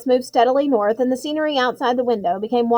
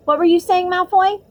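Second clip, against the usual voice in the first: challenging; 8 semitones higher, 5 dB louder than usual. Acted. Harry challenging Malfoy.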